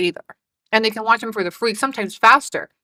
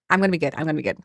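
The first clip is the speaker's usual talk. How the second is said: low, soft promise to yourself; self-calming promise; 7 semitones lower, 6 dB quieter, much faster than usual. Real, not acted. Streamer reining herself in after bad jokes, low and quiet. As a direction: settle down quietly after a laughing fit.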